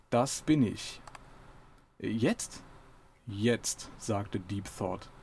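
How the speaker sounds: lively audiobook reading voice; dramatic book reading; story reading. A narrator's reading. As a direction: read the scene out to listeners. Reads the novel passage aloud.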